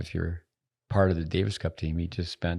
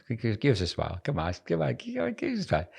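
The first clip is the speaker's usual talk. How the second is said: coaxing; 4 semitones higher than usual. Real, not acted. Coaxing a smile for camera.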